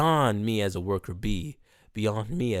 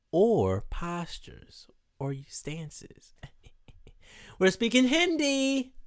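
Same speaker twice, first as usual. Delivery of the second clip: whispered aside; 9 semitones higher, slower than usual. Real, not acted. Whispered aside about asanas.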